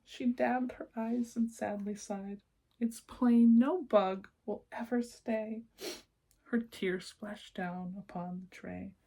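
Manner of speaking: lilting rhymed read-aloud; storybook narration. A narrator's reading. Reading a rhyming picture book to children, lilting storyteller voice. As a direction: read the verses like a bedtime book.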